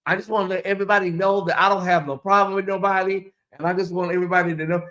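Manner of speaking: imitating a sweet Mister Rogers voice on a livestream. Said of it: "talking like this".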